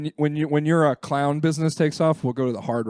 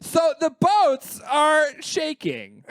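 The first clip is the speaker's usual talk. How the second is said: slow, high, laughing through words; much slower than usual. Pretend. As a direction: giggle it out slowly. Joking about weather woman.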